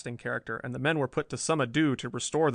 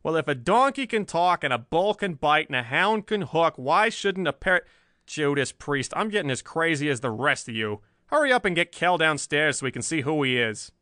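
louder, fed-up grumbling editor; exasperated rant; 3 semitones higher, 4 dB louder than usual. Acted. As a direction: blow off steam at the crew. Exasperated Bland rants.

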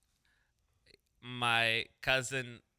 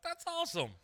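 forced enthusiasm. Retold or imitated. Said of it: "I was like".

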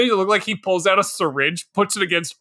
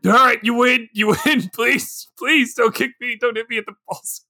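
mock pleading; 6 semitones higher than usual. Begging Goro on the ground.

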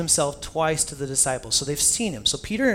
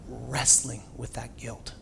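slow and much softer, weighed down; heavy, soft drawl; 4 semitones lower, 8 dB quieter, much slower than usual. Real, not acted. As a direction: let the guilt slow every word. Repeated phrase, second plainer.

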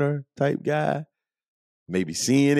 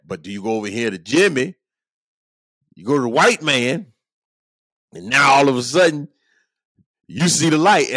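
higher and louder, building indignation; indignant friend's quote; 6 semitones higher, 5 dB louder than usual. Retold or imitated. Retelling his friend scolding him about the coach, indignant and raised. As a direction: let the friend's grievance rise to the end. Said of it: "the inflection in my voice".

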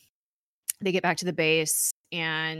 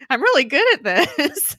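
higher, mildly amazed mock voice; 8 semitones higher, 4 dB louder than usual. Coulson marvels at hitting his targets, amazed. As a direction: imitate someone astonished at his own skill. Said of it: "He's amazed".

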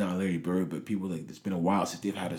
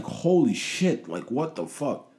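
stunned; 5 semitones higher, slower than usual. Retold or imitated. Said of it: "I was just like".

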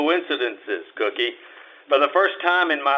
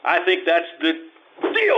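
laughing; 3 semitones higher, slower than usual. Acted. Marlowe laughs while grabbing her.

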